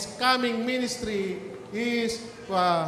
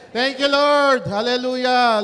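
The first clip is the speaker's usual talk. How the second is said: praise shout; 3 semitones higher, 7 dB louder than usual. Real, not acted. Preacher praising God aloud.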